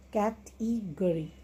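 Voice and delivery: "cat eagerly" as category in measured beats, cat-e-go-ry; "cat eagerly" lightly separated, cat, e, go, ry; four syllables. Shown as a demonstration. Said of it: "Then four syllables words".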